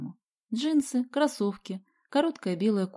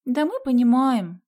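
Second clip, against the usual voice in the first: slow, raised sympathetic assurance; higher, emphatic commiseration; 5 semitones higher, 7 dB louder than usual. A narrator's reading. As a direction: draw it out with understanding. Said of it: "сочувственно кивнула Соня".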